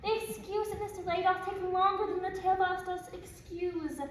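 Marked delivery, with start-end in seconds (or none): 0.0-2.1 high, loud laughing disbelief; laughing exasperation. Acted. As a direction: laugh at the excuse, impatient. Girl mocks nurse's excuse, laughing.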